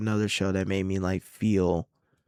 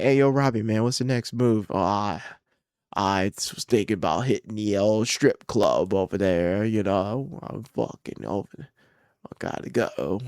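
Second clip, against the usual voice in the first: a clumsy put-on British voice; bad British accent; 2 semitones higher than usual. Speaker voicing his mates in a bad British accent. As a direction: play a rowdy mate in a poor British accent. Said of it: "my fucking British accent is horrible".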